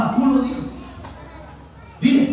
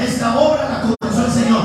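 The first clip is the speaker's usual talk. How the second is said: firm, raised congregational call; strong declaration; 4 dB louder than usual. Shown as a demonstration. Preacher has congregation repeat after him, strong declaration. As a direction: lead the crowd in declaring it with force. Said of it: "Fuerte diga".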